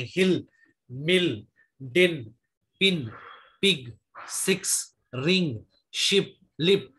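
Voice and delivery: हिल, मिल, पिन one by one with a short "i"; measured word list with short i, as in हिल; short ई demo. Shown as a demonstration. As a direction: drill हिल, पिग, शिप slowly, each with ह्रस्व ई. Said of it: "आई स्वर का ह्रस्व ई".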